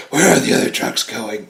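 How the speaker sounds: hoarse, strained Batman growl; husky voice like a lost voice. Retold or imitated. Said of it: "he loses his voice".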